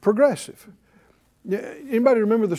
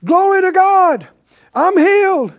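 high, loud cry of praise; joyful shout; 12 semitones higher, 7 dB louder than usual. Acted. Healed leper shouting praise back to Jesus, joyful shout. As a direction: shout it out like a man just healed. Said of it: "came back to Jesus shouting".

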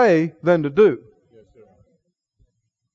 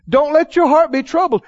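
higher-pitched, emphatic command; firm order; 5 semitones higher than usual. Retold or imitated. The Lord telling his troubled followers, firm order. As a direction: lay it down as a charge. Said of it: "It is an order".

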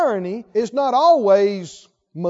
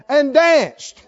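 ordinary talk

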